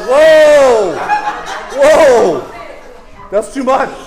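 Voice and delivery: amused half-laughing protest; laughing whoa. Retold or imitated. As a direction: back off laughing, too much. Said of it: "I'm like".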